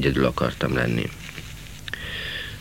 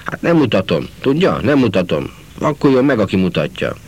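shrieking; 3 semitones higher than usual. Acted. Market woman yelling at the conductor, shrieking angrily. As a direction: scold the conductor, then screech the curse. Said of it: "visítozva rázta öklét".

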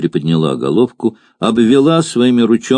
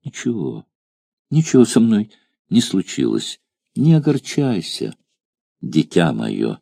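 tender. Acted. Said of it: "с невыразимой нежностью".

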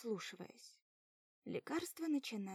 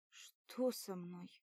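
slow, barely controlled words; weak numb voice; 3 semitones lower, much slower than usual. Acted. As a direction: speak with numb heavy lips. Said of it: "Голос едва повинуется".

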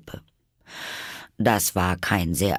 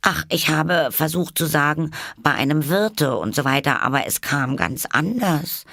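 high-voiced Alice, a touch dejected; mildly downcast; 8 semitones higher, 3 dB louder than usual. A narrator's reading. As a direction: lament lightly in a high voice. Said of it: "in niedergeschlagenem Ton". (leicht niedergeschlagen, mit hoher Stimme)

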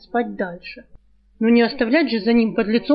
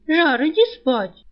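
slow, higher begging plea; pleading; 5 semitones higher, slower than usual. Acted. Girl pleading with her friend to go sleep. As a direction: beg him to just go to bed. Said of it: "взмолилась девушка".

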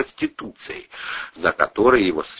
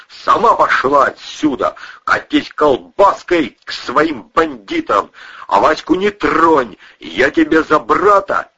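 put-on drunken shouting; 9 semitones higher, 4 dB louder than usual. A narrator's reading. Кузен орёт на Кристину.

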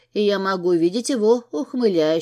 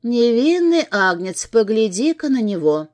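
sarcastic; 4 dB louder than usual. Acted. She mocks his innocence.

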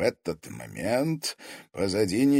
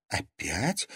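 usual speaking voice

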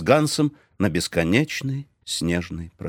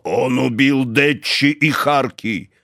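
slow, louder insistence; stubborn insisting; 4 semitones higher, 3 dB louder, slower than usual. A narrator's reading. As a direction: hammer the same words. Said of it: "Ганс твердил одно".

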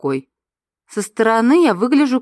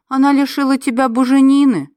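laughing; 7 semitones higher, 5 dB louder than usual. A narrator's reading. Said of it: "рассмеялась я".

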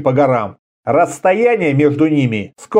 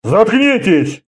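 restrained mock roar, raised pitch; 7 semitones higher, much slower than usual. A narrator's reading. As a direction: bark an order without real volume. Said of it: "взревел Орда". (сдержанный рёв, голос выше)

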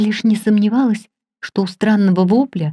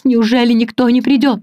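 desperate call; 4 semitones higher, 5 dB louder than usual. A narrator's reading. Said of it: "звал он".

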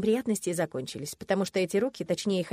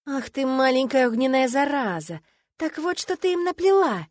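furious outburst; 5 semitones higher, 6 dB louder than usual. Acted. Уронил её, в ярости.

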